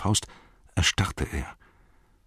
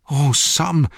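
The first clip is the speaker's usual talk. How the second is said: higher, louder remorseful cry; horrified at what he did; anguished cry; 9 semitones higher, 6 dB louder than usual. Acted. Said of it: "rief Frodo".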